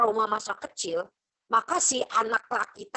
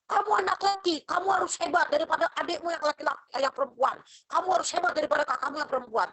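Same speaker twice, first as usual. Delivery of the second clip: demanding parent; 5 semitones higher, faster than usual. Retold or imitated. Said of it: "Karena tadi di dalam keluarga".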